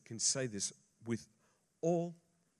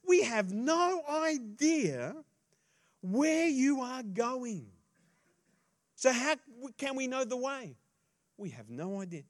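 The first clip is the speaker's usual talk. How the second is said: high, loud, slow, drawn-out bafflement; Thomas protesting; 11 semitones higher, 6 dB louder than usual. Acted. Thomas telling Jesus they have no idea where he goes, high and slow. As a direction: stretch it out, utterly clueless.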